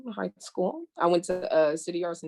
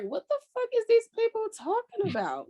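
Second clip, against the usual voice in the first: high, incredulous mock outburst; mock outraged disbelief. Reading Twitter takes, high incredulous mock outrage. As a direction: act out reading dumb tweets in shock. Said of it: "and I'm like".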